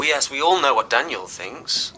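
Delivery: scornful retort. Acted. Brother dismisses what Daniel thinks, scornful retort. Siblings bicker over Daniel.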